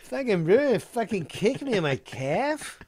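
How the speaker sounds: nurse the grievance as the castmate; imitated wounded grumbling. Castmate sulking all week over the kick, mock aggrieved. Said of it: "he like".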